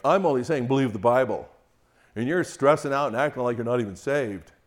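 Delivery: a hint of a self-justifying husband; defensive husband. Husband defending himself to his fearful wife, indignant.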